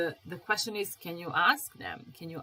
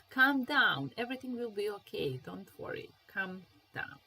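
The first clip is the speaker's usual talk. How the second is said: soothing; 2 semitones higher than usual. Shown as a demonstration. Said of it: "So calm down, it means don't be so upset".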